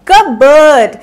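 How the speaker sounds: कबर्ड said kuh-burd, no p sound; correct pronunciation. Shown as a demonstration. Teacher modelling कबर्ड for her class. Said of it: "कबर्ड बोलेंगे इसे".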